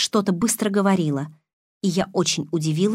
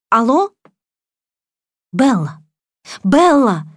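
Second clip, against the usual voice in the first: higher, louder frantic calls; panicked mother calling; 5 semitones higher, 7 dB louder, slower than usual. Acted. Mother calls her daughter Bella in panic. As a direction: call out in panic and fear. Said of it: "Гремучая смесь паники и испуга".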